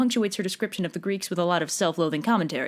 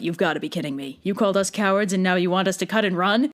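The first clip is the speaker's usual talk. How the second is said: mock Diomedes; 2 semitones lower than usual. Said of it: "And Diomedes is like".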